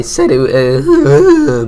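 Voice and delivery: real high, loud vocal wobble; voice all over the place. Real, not acted. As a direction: voice leaping up out of control. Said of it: "my voice is just everywhere right now".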